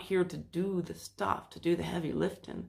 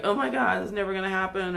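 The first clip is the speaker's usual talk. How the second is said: mock panic; 5 dB louder, faster than usual. Voicing the listener's fearful thoughts, mock panic. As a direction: throw up your hands in fake despair.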